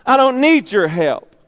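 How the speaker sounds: put-on loud, high, whiny child insisting; defiant toddler. Believer as a two-year-old telling God, whiny defiance. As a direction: stamp your foot like a toddler. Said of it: "like a little two-year-old".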